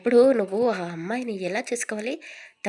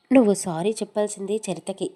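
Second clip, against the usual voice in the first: louder, firm motherly reproach; firm scolding; 7 dB louder than usual. Acted. Mother tells son to apologise to Charitha, firmly loud. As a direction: set him straight, a mother scolding.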